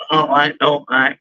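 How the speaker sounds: a hint of a ditzy single woman; lightly voiced city woman. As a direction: play a lost city girl, lightly. Plays Laura character monologue.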